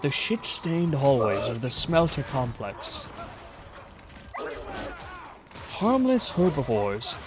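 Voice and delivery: slow, hushed wildlife narrator; nature documentary. Pretend.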